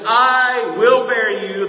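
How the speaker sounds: loud and slow "I will bear you,"; preacher's loud proclamation to the congregation; booming proclamation. Acted. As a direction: proclaim it loudly from the pulpit. Preacher proclaims verse loudly.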